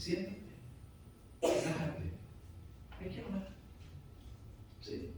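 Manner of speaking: gentle, unhurried teacher's voice; tender, calm coaxing. Acted. Pastor modelling how to correct someone, tender and calm. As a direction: softly invite someone to sit and talk. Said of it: "tierna, con mucha calma".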